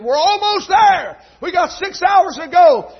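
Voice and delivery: high, loud and slow, pleading with dad; retold urging. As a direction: stretch it out, coaxing him on. Son urging tired dad on.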